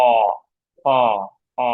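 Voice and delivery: "অ" held as a long vowel. Shown as a demonstration. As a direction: draw out each "অ", with pauses between. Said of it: "long vowel বোঝাচ্ছে".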